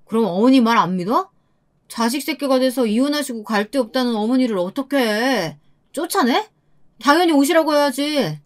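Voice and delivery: a touch of indignant pushback; defensive retort. Acted. Husband defending his mother to his wife, mildly indignant. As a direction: argue back as the lightly voiced husband.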